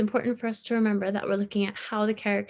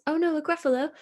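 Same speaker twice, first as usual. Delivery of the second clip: fox crying out; 7 semitones higher, faster than usual. Acted. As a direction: shriek it like a startled fox. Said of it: "cried the fox".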